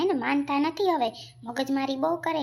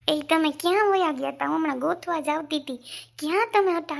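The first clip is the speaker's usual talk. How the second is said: angry confrontation; 2 semitones higher than usual. Acted. Wife confronts late-returning husband.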